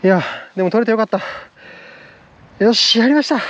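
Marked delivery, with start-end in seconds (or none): 2.6-3.4 loud, higher-pitched cry of victory; triumphant. Real, not acted. Angler celebrating a big catch to the camera, triumphant.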